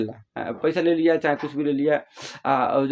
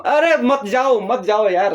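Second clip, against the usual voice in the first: higher-pitched, insistent plea; pleading parent; 5 semitones higher, 3 dB louder, slower than usual. Acted. Parent begging a departing child to stay, pleading. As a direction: beg them not to leave. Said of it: "और तुम बोलते हो कि".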